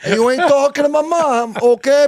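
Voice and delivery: loud, high mock Italian-American tough guy; hammed-up Italian-American accent, half yelling. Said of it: "trying to sound like an Italian".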